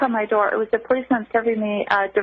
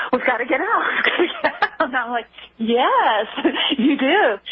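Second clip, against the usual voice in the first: laughing through the retelling; 3 semitones higher than usual. Real, not acted. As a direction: let laughs break up the quoted exchange. Laughs retelling ex's change of heart.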